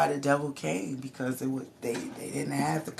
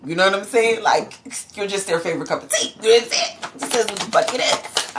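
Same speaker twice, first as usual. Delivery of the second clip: excited; 5 semitones higher, 7 dB louder, faster than usual. Real, not acted. Excited reading for collective.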